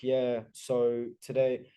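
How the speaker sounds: mock his own dull early TikTok voice; boring delivery. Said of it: "it's boring as fuck".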